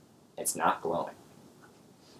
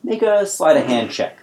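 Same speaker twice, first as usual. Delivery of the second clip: suspicious goblin; 5 semitones higher, 5 dB louder than usual. Acted. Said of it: "he's like".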